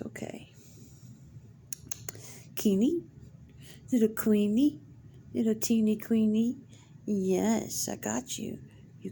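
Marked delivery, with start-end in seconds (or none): 2.6-6.6 rising sing-song call; calling cat. Real, not acted. Owner calling out to her cat, rising sing-song. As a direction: call her name up the scale, coaxing.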